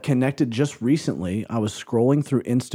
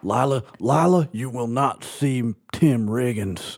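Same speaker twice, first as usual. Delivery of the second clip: lightly drawled small-town Texan; Buddy Garrity accent. Retold or imitated. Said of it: "my buddy Garrity accent".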